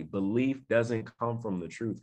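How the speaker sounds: slow repeat. Shown as a demonstration. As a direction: say it slowly for it to sink in. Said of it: "Let me say it again slowly".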